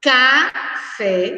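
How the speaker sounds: "Café" with a pause after ca; teacher sounding out "Café"; reading out by syllables. Shown as a demonstration. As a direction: read "Café" deliberately, ca, fé. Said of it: "vamos ler novamente as três palavras".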